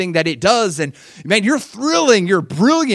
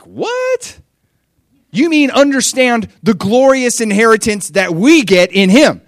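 high, louder disbelieving cry; incredulous what; 7 semitones higher, 6 dB louder than usual. Retold or imitated. Listener reacts to Paul, louder and high, incredulous. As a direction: squeal it out in disbelief. Incredulous reply to Paul's prayer.

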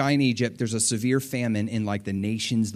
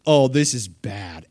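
scared; 4 dB louder, slower than usual. Retold or imitated. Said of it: "they're so scared".

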